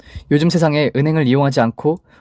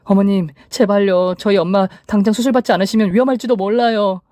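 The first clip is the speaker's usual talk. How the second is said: high-pitched, desperate acted plea; pleading; 7 semitones higher than usual. A narrator's reading. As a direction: beg the mother-in-law for help. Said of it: "라고 애원했습니다". (높은 목소리로 간절히 애원하듯)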